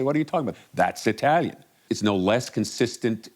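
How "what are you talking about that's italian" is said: higher-pitched mock disbelief; incredulous retort. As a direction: lightly act out an Italian's baffled comeback. Imagined Italian's baffled retort.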